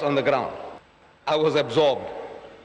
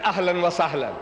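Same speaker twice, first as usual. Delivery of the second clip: an open, welcoming "Ahlan wa sahlan"; a friendly host's greeting; hospitable welcome. Retold or imitated. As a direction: greet the guest like family. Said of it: "the Arab is very hospitable".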